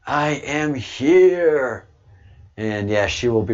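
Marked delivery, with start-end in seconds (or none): 0.1-1.9 frail voice. Retold or imitated. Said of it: "She's, like, frail and weak".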